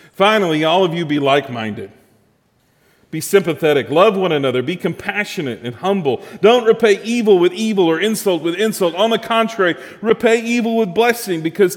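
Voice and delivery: emphatic, forceful Bible reading; scripture reading. Acted. Preacher reading Peter's letter to the congregation, emphatic scripture reading. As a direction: read scripture out with punched key words.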